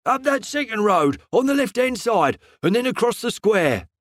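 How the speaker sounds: a hint of the gruff shopman; lightly voiced fruiterer. A narrator's reading.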